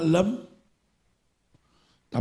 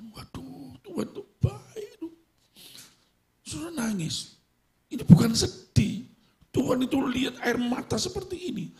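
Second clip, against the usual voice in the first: high, moved voice; awed; 11 semitones higher than usual. Acted. Preacher to congregation, awed and moved. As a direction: marvel at God's goodness.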